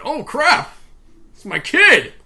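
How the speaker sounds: high, loud comic alarm; mock panic. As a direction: yelp it like a dad suddenly remembering. Mocking the forgetful father's realization.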